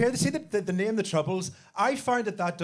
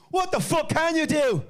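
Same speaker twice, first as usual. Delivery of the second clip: mock shout; 9 semitones higher than usual. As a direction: bark it out as the cocky classmate. Classmate Babatunde challenging the boy.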